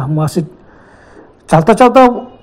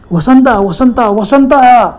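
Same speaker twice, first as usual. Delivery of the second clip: high, raised calls of a name; calling out loud; 5 semitones higher, 3 dB louder, much slower than usual. Acted. Ganesh calling for lost Vasant, raised and anxious. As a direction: shout the name into the dark forest. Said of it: "हाक मारली".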